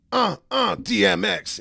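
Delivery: high, punched-out rapper shouts; loud ad-lib grunts. Retold or imitated. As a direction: grunt it hard, then shout the name.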